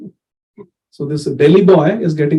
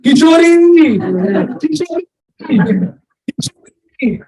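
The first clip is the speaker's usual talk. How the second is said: retold yell for his wife; 9 semitones higher, slower than usual. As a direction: call her name across the crowd, then lose heart. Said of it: "he's yelling".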